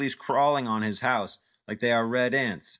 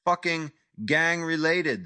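agitated rant; 7 semitones higher than usual. Acted. Vlade ranting in accent.

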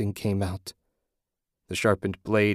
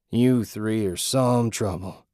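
menacing villain; slower than usual. Acted. Villain Jack speaks to heroes.

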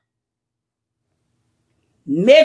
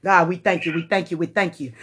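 low, hushed, quick thanks; quiet worship; 10 semitones lower, 6 dB quieter, faster than usual. Real, not acted. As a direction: whisper thanks to God. Soft thanks.

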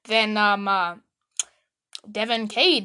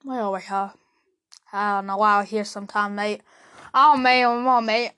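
lightly put-on Australian accent, lower pitched; 3 semitones lower than usual. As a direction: mimic her with a stray Aussie twang. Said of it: "Why did I turn to an Australian accent?".

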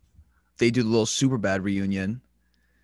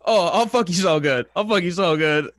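higher, louder panicked pleading; mock crying panic; 6 semitones higher, 6 dB louder than usual. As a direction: imitate a man blurting in tearful panic. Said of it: "And then just crying".

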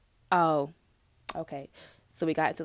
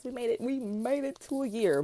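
triumphant cheer; 6 semitones higher than usual. Real, not acted. Celebrating one year anniversary.

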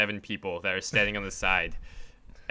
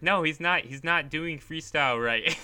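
put-on higher-pitched kid contradicting the coach; mock insistence, pitched up; imitating insistent tattletale; 6 semitones higher than usual.

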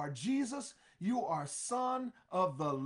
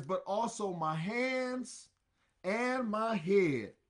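eager Peter; 3 semitones higher, 4 dB louder, slower than usual. Acted. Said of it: "Peter also says".

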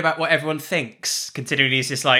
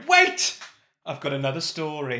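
mock Wendy call; 2 semitones lower, 3 dB quieter than usual. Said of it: "Wendy's gonna go".

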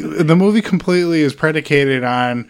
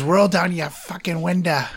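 imitating a muddled Boston-Southern accent, raised pitch; a hint of Boston, Southern and Australian in a film quote; inexplicable accent; 5 semitones higher than usual. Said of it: "he has this, like, inexplicable accent throughout".

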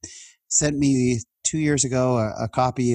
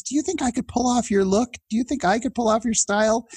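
much higher, playful mock questions; teasing speaker; 11 semitones higher than usual. Speaker asking teen about his style, high playful mock questions. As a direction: ask in a high mock-hopeful voice. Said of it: "He goes".

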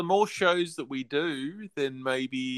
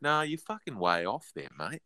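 mock Aussie retort; 3 semitones lower, 9 dB quieter than usual. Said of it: "I think it was just like".

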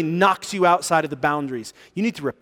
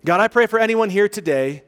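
slow, earnest public prayer; slower than usual. Real, not acted. Pastor thanks God in closing prayer, slow and earnest. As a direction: lead the congregation in prayer, unhurried.

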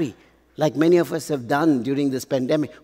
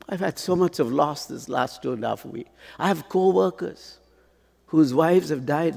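normal talking voice

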